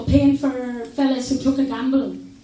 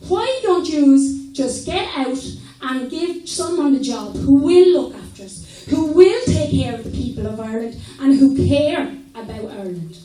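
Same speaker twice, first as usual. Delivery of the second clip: imagined speech to government. Retold or imitated. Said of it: "get to Dublin and say".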